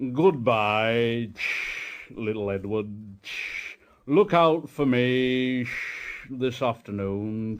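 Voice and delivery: slow, smug big engine. Acted. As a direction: lord it over little Edward. Gordon taunting Edward.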